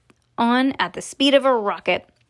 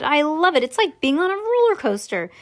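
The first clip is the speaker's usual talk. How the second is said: put-on higher, thrilled boy's cry; delighted shout; 5 semitones higher than usual. Charlie telling grandpa he loves the ride. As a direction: call out with glee. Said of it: "Charlie shouted".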